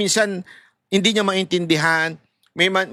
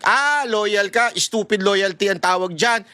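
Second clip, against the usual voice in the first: mocking quote. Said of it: "Yung iba, mini-misinterpret yun".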